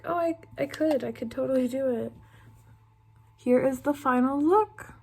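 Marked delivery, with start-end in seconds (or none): 0.0-2.1 stoned overconfident. Retold or imitated. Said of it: "I'd be like".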